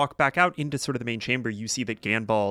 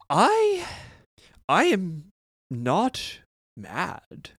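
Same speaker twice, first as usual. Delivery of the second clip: higher, clipped restraint over anger; stern wizard Ganbald; 5 semitones higher, 6 dB louder than usual. Acted. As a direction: insist you're not mad while clearly mad. GM voices Ganbald scolding the party.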